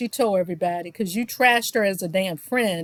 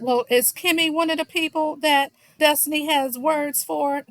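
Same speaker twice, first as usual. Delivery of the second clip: mildly passive-aggressive imitation, pitched higher; 5 semitones higher than usual. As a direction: slip in a lightly mocking, pointed question. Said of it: "Tisha's old passive-aggressive ass said".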